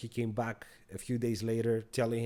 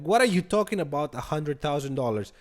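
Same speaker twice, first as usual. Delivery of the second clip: alarmed, louder and higher disbelief; retold panic at a friend's spending; freaking out; 4 semitones higher, 4 dB louder than usual. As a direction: blurt it out like you can't believe the number. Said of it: "I'm freaking out".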